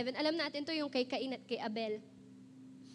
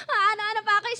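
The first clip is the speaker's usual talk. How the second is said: loud, high hammed-up sob talk; mock sobbing; 4 semitones higher, 9 dB louder, much faster than usual. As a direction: imitate blubbering through the words. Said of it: "sinisegoy-segoy ko pa".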